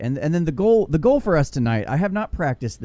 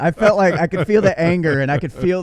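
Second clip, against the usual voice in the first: excited; 6 semitones higher, 7 dB louder than usual. Real, not acted. Praising the reading, laughing.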